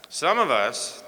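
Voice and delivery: "some of us" drawn out before a beat; dramatic pause. Real, not acted. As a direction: lean on "some of us", then wait. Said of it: "here we pause for dramatic effect".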